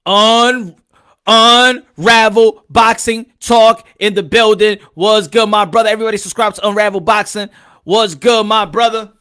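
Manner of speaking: loud, stretched hype announcement; hype intro shout. Real, not acted. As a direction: shout the show name like a hype man. Hyping the show intro.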